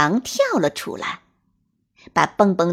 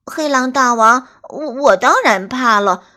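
trembling voice; 5 dB louder than usual. Acted. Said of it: "蹦蹦兔的声音有些发颤".

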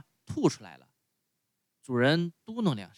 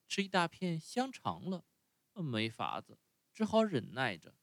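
softer, musing to himself; inner voice; 4 semitones higher, 5 dB quieter than usual. Acted. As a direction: think it aloud under your breath. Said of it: "他心里说". (匹诺乔心里自言自语，轻声叹气)

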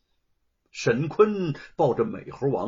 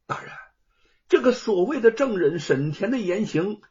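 raised, clear voice; ringing address; 2 semitones higher, 3 dB louder than usual. Acted. Scholar boldly exposes false witness, raised voice. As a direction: speak up boldly to the judge. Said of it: "朗声地说".

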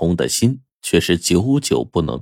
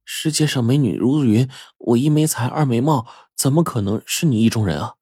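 gentle refusal; 4 semitones higher than usual. Acted. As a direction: turn him down kindly. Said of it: "委婉地拒绝了". (委婉推辞，声音高而柔)

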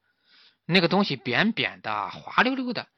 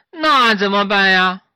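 pleading monkeys; 6 semitones higher, 9 dB louder, slower than usual. A narrator's reading.

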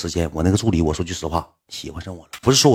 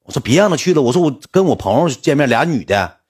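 sister's worried voice; 5 semitones higher than usual. Retold or imitated. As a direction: fuss over him like a bossy older sister. Sister objects.

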